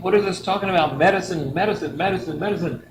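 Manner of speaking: confused exclamation at the wrong book; baffled. Retold or imitated. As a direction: sound baffled as each word repeats. Puzzled rereading the wrong book.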